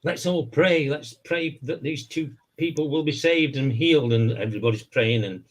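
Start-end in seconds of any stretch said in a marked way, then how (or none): 0.0-4.1 preacher voice. Retold or imitated. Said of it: "So Ernest says".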